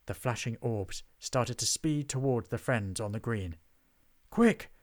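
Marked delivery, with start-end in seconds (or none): 4.3-4.7 high, loud command; urgent order. A narrator's reading. Mulch orders the friends to flee, urgent shout. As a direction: call it out like an order. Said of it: "ordered Mulch".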